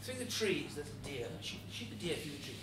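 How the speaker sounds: low, soft hunter's murmur; hushed pointing out. Acted. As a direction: quietly urge the shooter on. Devil quietly points out deer.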